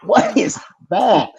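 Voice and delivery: high, slow, incredulous question; baffled. Retold or imitated. The young actor reacts to the candy feeding, high slow disbelief. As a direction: stretch it out in disbelief.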